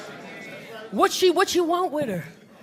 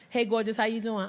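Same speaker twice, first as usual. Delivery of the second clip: polite greeting; 4 semitones lower, 7 dB quieter than usual. Retold or imitated. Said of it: "Women, we make faces".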